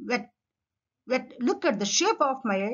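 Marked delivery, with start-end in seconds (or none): 0.1-1.3 "వెట్" as wet, lips pushed forward; "వెట్" with no teeth on the lip; W sound. Shown as a demonstration. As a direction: start "వెట్" with a rounded W. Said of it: "your lips come forward".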